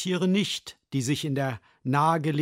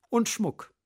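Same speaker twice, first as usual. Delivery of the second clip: higher, squawky magpie call; croaking magpie; 8 semitones higher than usual. Acted. Magpie squawks for jewellery, higher. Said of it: "krächzte die Elster".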